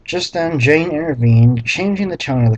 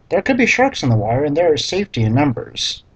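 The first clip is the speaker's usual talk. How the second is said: quick flat read; 2 semitones higher, faster than usual. Shown as a demonstration. Reader skimming the awful line, quick and flat. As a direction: rattle the line off fast, unimpressed. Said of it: "what an awful sentence".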